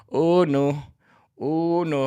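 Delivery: cracking up while quoting himself; laughing. Real, not acted. Laughing at his mother's talk of the next level.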